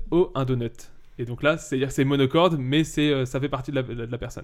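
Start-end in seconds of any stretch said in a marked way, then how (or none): 0.1-0.9 un peu d'Homer Simpson, léger; Homer Simpson. Shown as a demonstration. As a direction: esquisse Homer devant son donut. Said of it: "pour donner un exemple". (imitation légère d'Homer Simpson)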